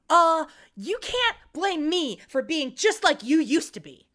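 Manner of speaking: mock teenage sister's indignant protest; hammed-up defensive outburst; overreacting. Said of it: "she super reacts and says".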